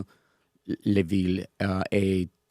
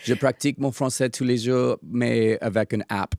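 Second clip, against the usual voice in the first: English speaker's careful French; halting French, English accent; foreign accent in french. Real, not acted. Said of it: "C'est parfait".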